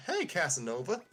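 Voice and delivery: teasing Parakarry voice. Acted.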